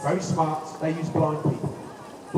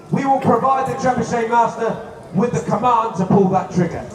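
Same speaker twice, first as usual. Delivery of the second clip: put-on overbright kids party host; 3 semitones higher than usual. Hyping up the crowd.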